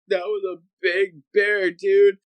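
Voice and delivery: high-pitched, wide-eyed disbelief; hammed-up frightened awe; spooked dad. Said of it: "never seen him so scared".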